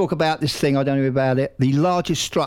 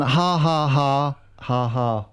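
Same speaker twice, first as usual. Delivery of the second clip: spelled-out mocking laugh; much slower than usual. Shown as a demonstration. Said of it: "Five ha's".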